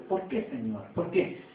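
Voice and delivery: low, soft appeal to God; subdued questioning. Acted. Believer asking God why hardship comes, subdued. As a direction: quietly act out a troubled prayer.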